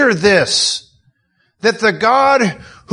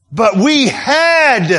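"had" drawn out long and higher; stress on HAD; 5 semitones higher, much slower than usual. Acted. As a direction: lean slowly on "had". Stresses that it wasn't optional.

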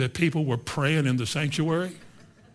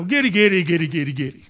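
faked tongues; 6 dB louder than usual. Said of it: "That's not the Holy Ghost. That was you".

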